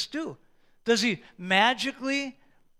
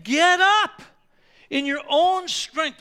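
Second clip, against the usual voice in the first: high, loud command; commanding call; 6 semitones higher, 7 dB louder, slower than usual. Acted. God ordering the believer to rise, loud and commanding. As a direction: rouse them to their feet.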